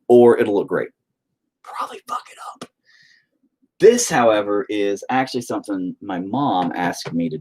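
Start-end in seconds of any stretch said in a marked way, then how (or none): 1.6-2.7 a fast, soft whisper to yourself; whispered aside. Real, not acted. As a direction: mutter the doubt under your breath. Self-deprecating aside while painting.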